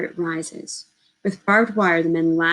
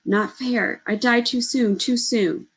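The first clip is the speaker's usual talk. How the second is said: crying out; 5 semitones higher, slower than usual. Acted. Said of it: "Merging, we cry".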